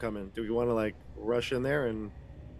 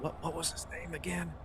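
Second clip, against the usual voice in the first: hushed, higher-pitched question; whispering; 4 semitones higher, 8 dB quieter than usual. Acted. Player secretly asks Jack for a name, whispering. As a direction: ask it softly, under cover. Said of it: "I whisper to Jack".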